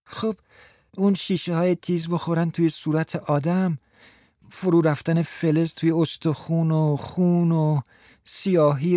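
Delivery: Frans's voice. Acted. Frans telling Martha his disgust, lightly voiced. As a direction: voice the squeamish young man.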